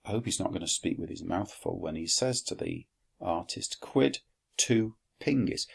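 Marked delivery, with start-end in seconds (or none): 3.8-5.7 higher question voice. Acted. Quintus asks artist.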